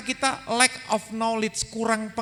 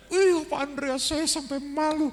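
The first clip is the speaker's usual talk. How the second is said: higher, shy wife's voice; embarrassed wife; 7 semitones higher than usual. Retold or imitated. Wife telling the preacher on the phone, a higher bashful voice. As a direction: play the bashful wife laughing it off.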